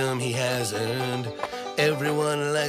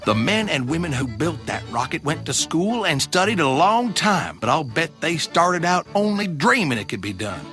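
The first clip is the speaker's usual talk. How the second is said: reassuring father; 6 dB louder than usual. Acted.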